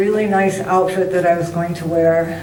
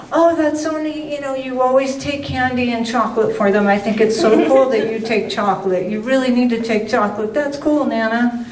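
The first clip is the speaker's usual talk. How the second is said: granddaughter gushing; 4 semitones higher than usual. Retold or imitated.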